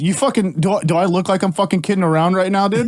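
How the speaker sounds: hammed-up tough talk; mock indignant New Yorker. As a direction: pretend to pick a fight, New York style. Acts out New York shit-talking.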